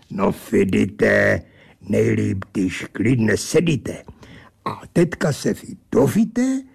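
the Angel of the Odd presenting himself grandly; the angel pinning the narrator to his chair, slow and pompous. Acted.

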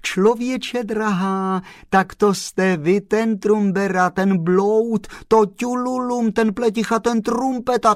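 high, loud string of teasing names; joyful outburst. Acted. The postman gleefully showers the chauffeur with names, high and loud. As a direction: rattle off the insults in delight. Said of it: "vykřikl pan Kolbaba radostně".

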